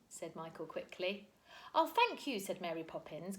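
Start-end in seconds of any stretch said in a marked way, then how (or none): 1.7-2.4 a high, cutting sarcastic thank you; sarcastic thanks with a terrible glance; icy sarcasm. A narrator's reading. Mary Poppins silencing Michael, icy sarcasm. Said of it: "giving him a terrible glance".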